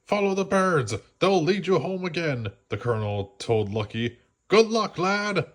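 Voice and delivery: put-on a gruff old colonel wishing luck; old colonel dog sending the pup home.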